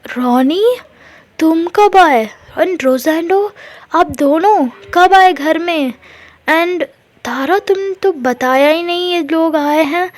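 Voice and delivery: suddenly notice the guests, voice jumping up; caught off guard. Retold or imitated. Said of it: "तो मिशा बोलती है".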